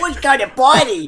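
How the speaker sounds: put-on high, loud party-boy caricature; mock Parisian guy. Podcaster imitating the Parisian contestant, hammed-up and loud. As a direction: hype it up as an imitated Parisian bro. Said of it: "the Parisian guy".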